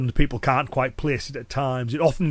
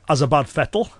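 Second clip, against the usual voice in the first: Cumbrian dialect phrase. Shown as a demonstration. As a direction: say it as a Cumbrian local would. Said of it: "if someone in Cumbria was to say".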